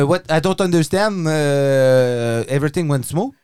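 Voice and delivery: put-on French-accented English, feigning incomprehension; francophone accent, innocent. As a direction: play lost with a thick-tongued francophone accent. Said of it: "avec mon accent francophone". (accent francophone, faire semblant de rien comprendre)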